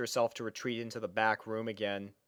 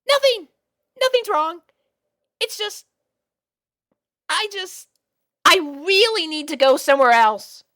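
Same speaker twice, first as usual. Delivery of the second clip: much higher and louder, embarrassed rush; flustered panic; 10 dB louder than usual. A narrator's reading. Sweetie Belle hiding her blush from Spike, flustered and high. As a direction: squeak out denials in a fluster. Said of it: "afraid that her whole body".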